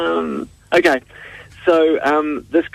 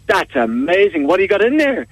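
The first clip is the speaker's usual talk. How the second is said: mild amazed Sean; 8 semitones higher than usual. Acted. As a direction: stretch out the wonder a little. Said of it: "And Sean goes".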